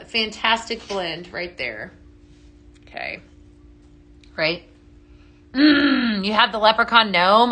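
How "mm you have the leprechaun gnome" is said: ordinary talk, nothing marked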